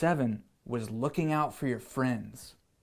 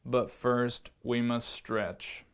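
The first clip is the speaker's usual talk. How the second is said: lion teacher voice; 5 semitones lower, 4 dB quieter, slower than usual. Acted. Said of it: "we'll do voices on this one".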